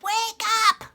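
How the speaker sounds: put-on high, loud old queen shouting; old lady voice. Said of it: "I did the old lady voice".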